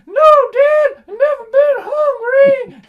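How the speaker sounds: put-on high, loud, slow whining child; whiny kid. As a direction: wail it like a spoiled kid. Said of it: "I'm like".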